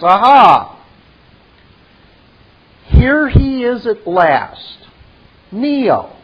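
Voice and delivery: Merovian voice. Acted. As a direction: play the smug French host, voice lifted and theatrical. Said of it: "and he says".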